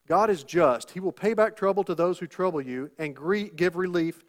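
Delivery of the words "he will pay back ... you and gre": ordinary talk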